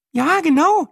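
very high, pleased confirmation; smiling Brenda. A narrator's reading. TV woman confirming she was recognised, smiling. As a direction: answer with an audible smile, high-pitched. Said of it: "lächelte Brenda".

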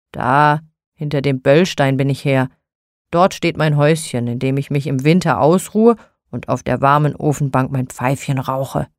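a hint of a low, grumbling broom-maker; lightly voiced gruff old man. Nikolaus boasts to Frau Holle about his rods, lightly gruff and low.

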